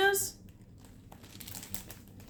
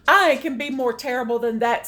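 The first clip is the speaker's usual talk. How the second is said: louder, fast, a lightly voiced bragging monster; Smug boasting; 6 dB louder, faster than usual. Reading aloud, Smug boasts to Claus, loud and quick. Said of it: "said Smug".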